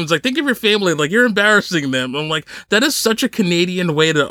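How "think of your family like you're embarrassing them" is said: mildly imitated reproach; mock shaming. Canadian driver shaming his rival over family, mock reproach. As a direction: shame him, lightly acted. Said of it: "shaming him".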